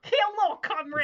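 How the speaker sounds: loud, high, hammed-up Russian accent; Tim Curry's Russian accent. Guest pretending to be an actor, terrible Russian accent. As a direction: greet like a terribly fake Russian, loudly. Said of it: "It's like Tim Curry's Russian accent".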